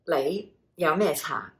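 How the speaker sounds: Lei, yao mei cha said with Cantonese tones; Cantonese phrase. Shown as a demonstration. Teacher modelling a tea question, careful Cantonese. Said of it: "you can say".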